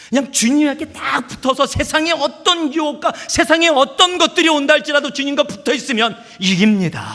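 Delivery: high, loud, urgent sermon delivery; full-force preaching. Real, not acted. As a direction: drive the point home at full pulpit volume.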